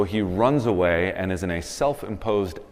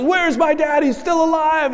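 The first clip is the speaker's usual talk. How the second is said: much higher, eager cartoon lion cub voice; young Simba; 7 dB louder than usual. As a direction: shout it like an excited cub. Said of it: "and he says".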